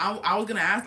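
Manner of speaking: imitated stammer on the first word; mildly mocked stutter. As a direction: trip over "I", acting out someone flustered. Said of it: "like, he's stuttering".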